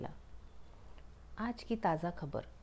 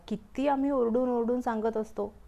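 loud complaint; 3 semitones higher, 6 dB louder than usual. Acted. Cloud complains about pollution.

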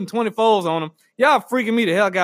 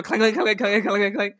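rapid spoken rattle of metal; imitated clanking. Driver shaking the gas nozzle, imitated clanking.

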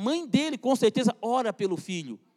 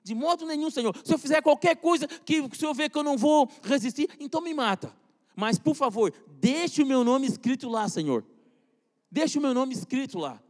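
pleading prayer; 3 semitones higher than usual. Retold or imitated. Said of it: "a primeira coisa que eu vou orar".

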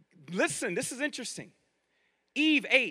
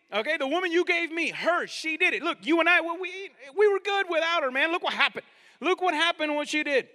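higher-pitched, insistent excuse-making; blaming her; 6 semitones higher than usual. Acted. Adam blaming Eve to God, higher and insistent. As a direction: plead your case and pin it all on her. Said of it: "what did he emphasize".

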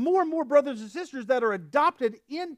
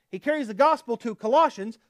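ordinary talk

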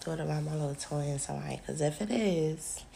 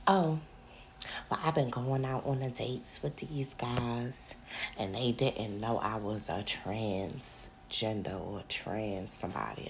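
mock girl confession; 5 semitones lower, slower than usual. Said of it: "she was like".

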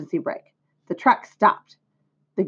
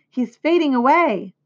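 high-pitched alarmed cry, read aloud; moderated storybook scream; 6 semitones higher, 3 dB louder than usual. A narrator's reading. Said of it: "screamed Fern".

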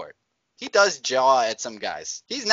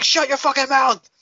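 high, loud bully's yell; screaming in someone's face; 11 semitones higher, 5 dB louder than usual. Acted. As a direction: play the brute yelling someone down. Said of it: "scream in someone's face when they're crying".

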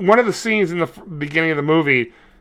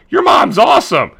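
put-on high, loud boyish call; a cheeky kid shouting over his shoulder; shouted brag; 7 semitones higher, 4 dB louder than usual. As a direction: yell it back as the kid runs off. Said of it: "he goes".

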